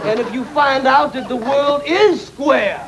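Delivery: high falsetto queen. Acted. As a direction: squeak it out as the queen. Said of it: "She said".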